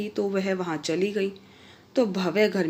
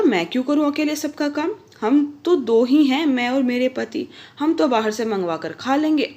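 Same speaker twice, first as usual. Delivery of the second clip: raised, stubborn pushback; defiant refusal; 4 semitones higher, 4 dB louder than usual. Acted. Young wife snapping back at her sister-in-law, defiant. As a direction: refuse sharply, a little louder.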